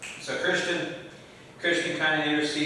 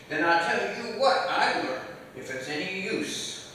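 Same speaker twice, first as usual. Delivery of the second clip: put-on old man voice; 4 semitones higher, 5 dB quieter than usual. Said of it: "I'm not doing a very good old, old man voice".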